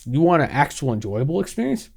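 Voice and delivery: soft, smug corporate teasing; mock YouTube voice. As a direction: toy with the viewer like a smug company. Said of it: "They said".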